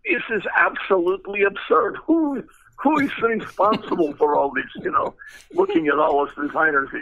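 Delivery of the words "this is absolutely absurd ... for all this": put-on high, indignant Russian-accented outburst; imitating a Russian engineer's shocked protest; thick Russian accent. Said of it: "big, thick Russian accent".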